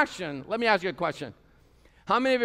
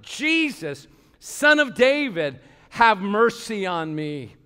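calling out; 3 dB louder, slower than usual. Retold or imitated. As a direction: cry out to Jesus with passion. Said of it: "he called out".

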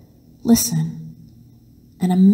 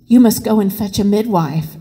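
panting. Acted. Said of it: "she panted".

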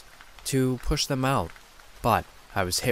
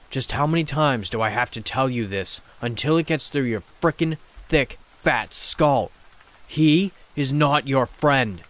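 a lightly voiced demon, hissing with contempt; a touch of a seething demon voice; 3 semitones higher, 4 dB louder than usual. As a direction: spit the words out at her like a jealous demon. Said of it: "The demon seethed".

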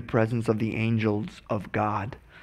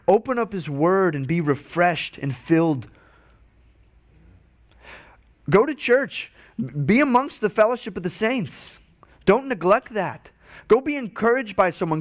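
higher, urgent preacher's call; fervent encouraging voice; 5 semitones higher than usual. Retold or imitated. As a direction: urge them on, lifting up high. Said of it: "a voice that is saying".

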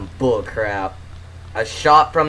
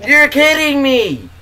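disbelief; 9 semitones higher than usual. Real, not acted. Gamer reacting to teammate's death, incredulous. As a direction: cry out in exasperated disbelief.

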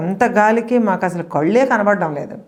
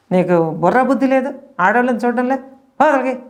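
retold angry scolding; 5 semitones higher than usual. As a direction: tell him off, getting angrier. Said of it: "నాకు పిచ్చ కోపం వచ్చిందనమాట". (కోపంగా తిట్టడం)

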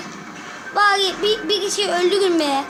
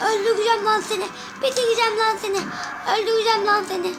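chanted, rapid playful threats; mock gamer threats; faster than usual. Gamer taunts the enemies while smashing them, mock menace.

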